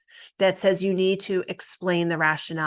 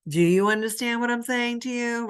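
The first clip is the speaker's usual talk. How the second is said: talking down, stress on what; patronizing, as if to a child; mock condescending counselor; 4 semitones higher than usual. Shown as a demonstration. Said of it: "you don't wanna say it in a condescending way".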